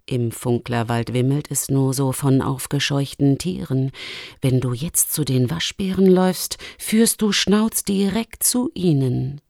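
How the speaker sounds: lightly voiced lynx, low at first; a measured warning from the Luchsin, slowing at the end. (warnende, leicht tiefer gefärbte Luchsstimme)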